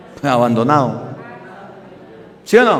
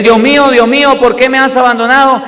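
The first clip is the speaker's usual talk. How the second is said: loud cry, raised high, rushing the end; 4 semitones higher, 4 dB louder, faster than usual. Acted. Jesus crying from the cross, loud cry. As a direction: shout it like an abandoned man. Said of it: "es el grito".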